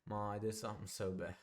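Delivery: softly re-enacted shaky confession; quivering voice. Son re-enacting his phone confession to mom, quivering voice. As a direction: mimic your own small, quivering voice. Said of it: "That's literally exactly how I sounded".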